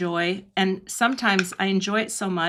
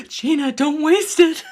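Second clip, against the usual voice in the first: gasp, then high, loud mock alarm; mock dismayed plea; 7 semitones higher, 7 dB louder than usual. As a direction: playfully cry out in protest. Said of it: "I'm always like".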